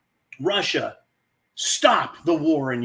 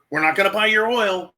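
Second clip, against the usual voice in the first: higher, hammed-up scolding of Putin; mock scolding; 5 semitones higher, 3 dB louder than usual. Mocking the West's empty threat to Putin, higher pitch. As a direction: scold like a toothless parent, higher. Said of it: "We're saying".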